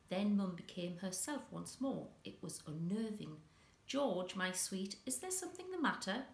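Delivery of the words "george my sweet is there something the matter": much higher, quick sing-song mother voice; sweet on the surface, hiding a snap; a mother coaxing her wary son, high and quick; Mum's sugary question. Acted. Mum quizzes wary son.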